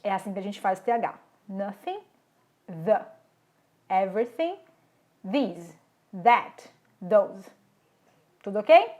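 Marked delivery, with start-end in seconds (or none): 1.5-7.5 voiceless th in "Nothing" and "Everything", voiced th in "the", "these", "that", "those"; th drill. Shown as a demonstration. Teacher drilling th sounds for students to repeat. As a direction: contrast the blown th with the vibrating th. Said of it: "Faz comigo".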